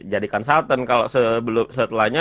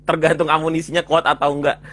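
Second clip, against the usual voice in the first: laughing; 5 semitones higher, 3 dB louder than usual. Real, not acted. Joking about money for surgery.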